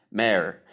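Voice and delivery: mayor as one syllable, MAIR; mayor as M plus "air"; standard pronunciation. Shown as a demonstration. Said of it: "but the pronunciation is".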